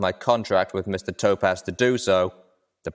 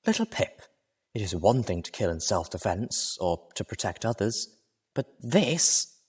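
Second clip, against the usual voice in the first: indignant protest; 4 dB quieter than usual. Acted. Velvet voiced throughout.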